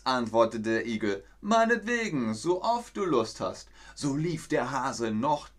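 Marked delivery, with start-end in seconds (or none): 1.4-3.7 much higher, cheeky tone; smug offer. Acted. Hedgehog answers the hare, high and cheeky. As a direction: toss it off cheekily.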